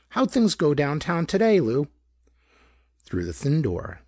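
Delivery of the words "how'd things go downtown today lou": higher, whining wife's voice; reedy whine. A narrator's reading. Wife asks her husband about his day, reedy whine. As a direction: let a little whine into it. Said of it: "reedy with a bit of a whine".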